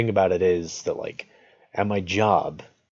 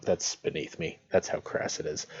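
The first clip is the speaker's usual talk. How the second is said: hushed whispered aside; whispering; 3 semitones lower, 6 dB quieter than usual. Real, not acted. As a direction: whisper it under your breath. Joking aside about a crass joke.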